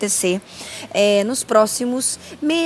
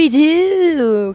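dramatic announcement; 6 semitones higher, 8 dB louder, much slower than usual. Acted. Announces cartoon name dramatically.

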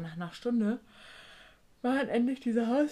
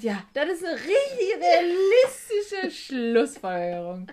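sarcastic laugh; 11 semitones higher, 10 dB louder, slower than usual. Retold or imitated. Sarkastischer Gedanke, lachend.

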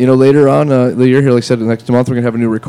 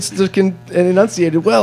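mock careful enunciation; 9 semitones higher than usual. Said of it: "keep it clear and".

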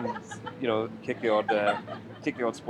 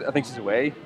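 a called-out, half-shouted quote; shouted line. Retold or imitated. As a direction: call it out like the character. Voicing John in sitcom scene.

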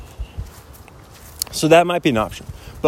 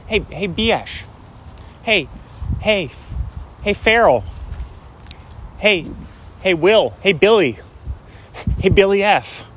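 a pitched-up easygoing dude calling a buddy; Owen Wilson impression; 5 semitones higher than usual. Calling Ben Stiller in a high Owen Wilson voice. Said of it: "my Owen Wilson impression".

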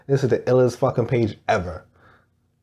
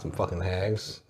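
slow and quiet, half laughing; laughing slowly; 4 semitones lower, 11 dB quieter, slower than usual. Real, not acted. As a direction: hold back a laugh as you say it. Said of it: "Why you gotta say it like that".

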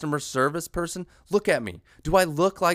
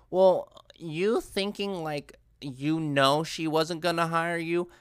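mock critic. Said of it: "I know people go".

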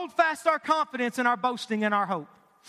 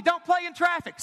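put-on raised, higher warning to a child; parent warning; 4 semitones higher than usual. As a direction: call out a firm warning.

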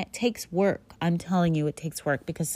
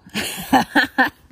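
short laugh; 8 semitones higher, 8 dB louder than usual. Real, not acted. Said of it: "That's how I see it".

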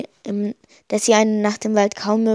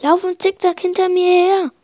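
urgent order; 8 semitones higher than usual. A narrator's reading. Directing friend under fire.

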